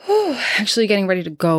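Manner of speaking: breathless and hurried; out of breath. Real, not acted. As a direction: talk while catching your breath. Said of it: "I'm probably out of breath".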